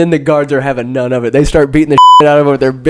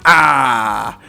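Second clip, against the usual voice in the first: imitated yelp of pain. Imitates man being hit by club.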